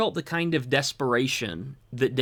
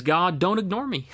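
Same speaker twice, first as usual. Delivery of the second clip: pleading paraphrase; 4 semitones higher than usual. Retold or imitated. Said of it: "He says".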